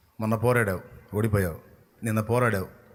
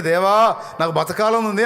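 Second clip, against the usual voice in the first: mock pleading prayer; 6 semitones higher, 4 dB louder, slower than usual. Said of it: "అన్నాడు".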